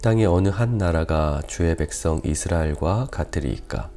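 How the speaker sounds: measured, solemn Bible reading, firm on each address to God; scripture reading. Real, not acted. Pastor reads David's prayer to the congregation, formal scripture reading. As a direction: read the passage out to a congregation.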